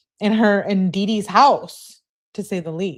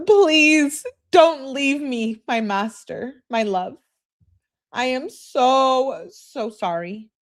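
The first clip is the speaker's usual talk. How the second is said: high, slow begging plea; mild mock pleading; 6 semitones higher, 3 dB louder, slower than usual. A reader voicing Demona begging her master, slow and high. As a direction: beg him not to leave, drawn out. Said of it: "She says".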